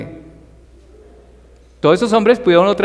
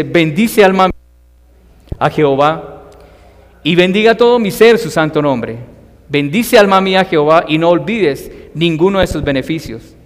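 solemn, declaiming psalm reading; scripture reading. Acted. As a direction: proclaim the psalm to the congregation. Reads Psalm 103 aloud.

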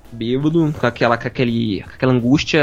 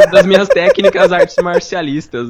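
laughing through words; 4 semitones higher, 4 dB louder, slower than usual. Real, not acted. Jokes about his martial arts.

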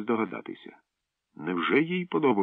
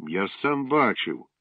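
indignant; 4 semitones higher, slower than usual. Acted. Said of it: "обурився Славко".

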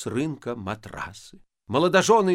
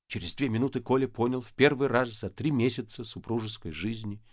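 plain reading voice

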